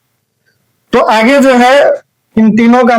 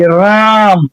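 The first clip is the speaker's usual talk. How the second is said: राम drawn out in one long stretch; slow pronunciation; much slower than usual. Shown as a demonstration. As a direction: say राम slowly as one unbroken syllable. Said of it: "धीरे से बोलने का कोशिश कीजिए". (राम को धीरे से, एक ही बार में खींचकर)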